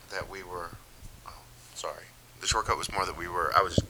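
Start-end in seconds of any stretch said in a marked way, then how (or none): 1.3-2.0 hushed quick apology under the breath; whispered sorry. Real, not acted. Friend apologising mid-story in a whisper.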